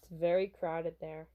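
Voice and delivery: lightly voiced low-key bodyguard; stoic bodyguard. Bodyguard directing pop star to the car, lightly stoic.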